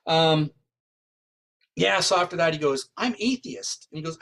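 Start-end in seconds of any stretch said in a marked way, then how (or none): 3.0-3.9 higher-pitched retold protest; acted protest. Detective to psychic after the find, high-pitched mock protest. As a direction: lift the voice, quoting a baffled sceptic. Detective confesses amazed disbelief.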